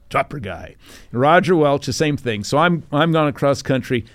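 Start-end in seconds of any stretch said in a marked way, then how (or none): 0.1-0.8 funny nickname imitation. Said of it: "Doug Thompson says it the funniest".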